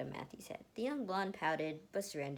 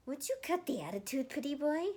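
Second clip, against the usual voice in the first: annoyed scolding; 7 semitones higher, 5 dB louder than usual. Acted. Annoyed girl scolds boy.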